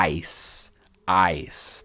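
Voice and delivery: ICE low, with a long "eye" vowel; elongated vowel. Shown as a demonstration. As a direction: stretch the vowel in ICE, end on a bare S. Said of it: "aquele som elongado".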